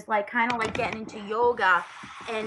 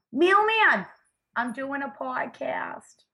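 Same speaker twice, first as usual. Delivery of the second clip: calling out; 5 semitones higher, slower than usual. Real, not acted. Calls out to the mailman.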